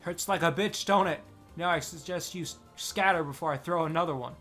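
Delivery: put-on loud, furious threat from an old woman; old woman's enraged threat; thick with rage. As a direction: bark it at the children like a warning. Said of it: "in a voice thick with rage".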